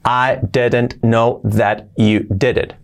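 slow, unlinked, each word apart. Shown as a demonstration. Teacher's starting point before linking, word by word. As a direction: give every word its own space. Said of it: "la unión de palabras".

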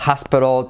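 hospital as /aspɾo/, an open A and a dark L; native hospital. Shown as a demonstration. Teacher gives the native hospital. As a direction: say hospital like aspro. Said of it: "y es hospital".

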